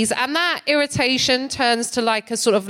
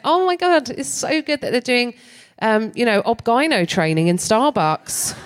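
sarcastic; 3 semitones higher than usual. Retold or imitated. Sarcastic reply to barista.

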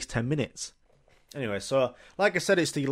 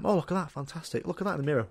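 higher, softer, delighted showing-off; a hint of a pleased hairdresser; admiring hairdresser; 5 semitones higher, 5 dB quieter, faster than usual. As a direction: hold up the mirror proudly. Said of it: "She's giving me a little trim".

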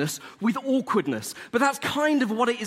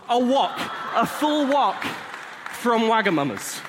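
triumphant shout; 4 semitones higher, slower than usual. Real, not acted. Telling the audience about his best haul, proudly shouted. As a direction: belt out the prize like a trophy. Punchline of the story.

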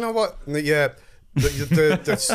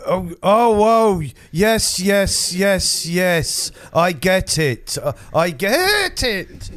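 slow dawning realisation; 4 semitones higher, 4 dB louder, much slower than usual. Acted. Hangman slowly getting the joke.

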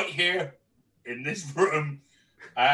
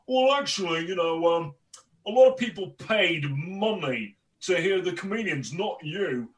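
higher-pitched, mildly hammed-up compere reproach; compere's telling-off voice; 3 semitones higher than usual. Comedian mocks himself telling off a table, putting on a compere's voice. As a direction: imitate a compere lecturing a noisy table. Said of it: "saying that line in that voice".

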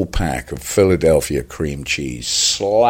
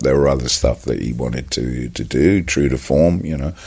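ordinary delivery

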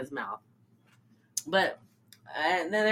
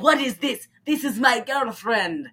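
put-on Tommy Wiseau accent; 3 semitones higher than usual. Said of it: "Tommy Wiseau accent".

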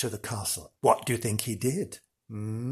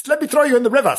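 high, loud pantomime demon; hammed-up demon mid-chase; gleeful demon threat; 12 semitones higher, 7 dB louder, much faster than usual. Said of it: "He's been going".

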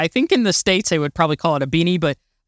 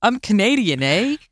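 playful mock Canadian accent, slightly lifted; 4 semitones higher than usual. Guest jokes about the Canada Pavilion, mock Canadian accent. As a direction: pretend to be Canadian, lightly put-on accent. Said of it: "I'm trying to do my Canadian accent".

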